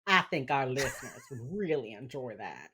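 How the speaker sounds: hammed-up Texas accent. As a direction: echo it with a Texas twang. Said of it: "in your Texas accent".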